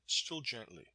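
ordinary delivery

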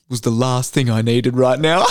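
slow, laughing retelling of sister's line; laughing through quote. Retold or imitated. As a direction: try not to crack up as you quote her.

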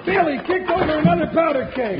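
fast, frantic, rising alarm; alarmed urgent shouting. Acted. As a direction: yell in panic as the keg spills. Cave fills with spilled powder.

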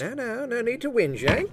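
a hammed-up Aussie bluffer, Australian accent; bad Australian accent. Player bluffing at the poker table, bad fake Australian accent. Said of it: "I know my accent sucks".

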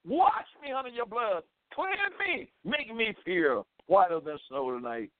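pleading sinner's prayer. Acted. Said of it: "Call upon the Lord".

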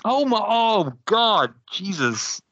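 high shocked cry of dismay; horrified at his own blunder, exclaiming; shocked gasp. Real, not acted. Realizes he skipped Terry Funk.

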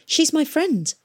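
high, anxious insistence; earnest appeal. A narrator's reading. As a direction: plead for a friend, pitched high. Youth pleading for his friend.

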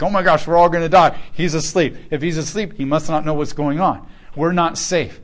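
loud, alarmed disciples crying out; mock panic.

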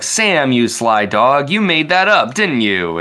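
high, playful teasing; teasing Frodo voice. Retold or imitated. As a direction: rib him like an old friend. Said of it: "And Frodo's like".

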